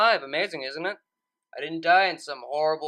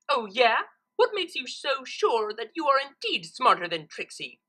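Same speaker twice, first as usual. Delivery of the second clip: higher, defiant retort; challenging Trixie; 6 semitones higher than usual. Acted. Trixie daring Twilight to prove it, defiant. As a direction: throw the challenge back.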